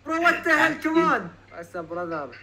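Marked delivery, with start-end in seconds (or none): 0.0-1.3 high, protesting whine; hammed-up exasperation; mock outrage. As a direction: protest in a raised pitch, playing offended.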